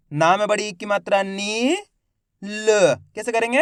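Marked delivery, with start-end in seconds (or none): 0.1-1.8 spelling out, with "नी" held long and rising; drawn-out long vowel. Shown as a demonstration. Teacher spelling the word for learners, "नी" drawn out. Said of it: "देखो किस तरीके से". 2.4-2.9 "ल" as a bare l with a short schwa; half-sounded last letter. Shown as a demonstration. Teacher showing the half pronunciation of "ल". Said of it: "तो आधा उच्चारण करेंगे".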